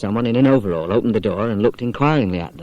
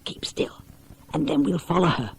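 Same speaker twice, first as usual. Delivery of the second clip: breathy whisper, softer; 8 semitones higher, 6 dB quieter than usual. Acted. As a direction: whisper so the girl won't hear. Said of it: "whispered Pam".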